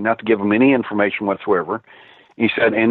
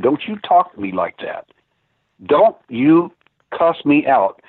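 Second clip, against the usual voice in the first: retelling his stern rebuke, raised pitch; indignant scolding; 4 semitones higher than usual. Retold or imitated. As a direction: push back at being cussed out. Pushing back at cussing webmaster.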